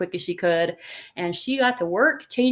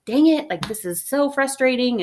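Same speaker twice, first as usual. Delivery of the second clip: frustrated; 5 semitones higher than usual. Retold or imitated. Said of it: "feeling frustrated and rushed".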